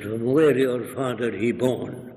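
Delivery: a hint of an Arab accent; Arab dialect. Arab leader asks about the visitor's father, lightly imitated Arab dialect. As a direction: lightly imitate an Arab man's broken English. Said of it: "in a dialect".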